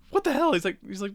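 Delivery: high-pitched mock exasperation; exasperated shouting. Acted exasperated gunfight exchange.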